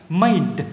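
MADE with the final d released; clear final d. Shown as a demonstration. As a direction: finish Made on an audible d. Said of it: "phát âm chuẩn cho mình này". (Made, bật rõ âm d cuối)

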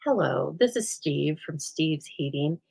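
lightly voiced calm repairman, slow and even; a hint of Steve's unhurried phone manner, never rattled; calm furnace guy. Imitating the furnace guy on the phone, mildly calm and unhurried. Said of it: "he speaks like this".

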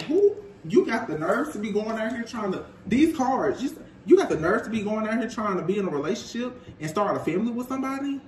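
incredulous mock outrage, fast; a man scolding his partner, half-joking; pissed-off retort. A boyfriend scolding his partner in mock outrage, fast. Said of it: "he is really pissed off".

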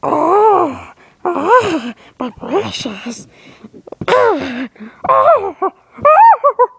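high wailing Gollum cry; golem voice. Acted. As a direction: wail over the lost precious. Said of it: "I use my, my golem voice".

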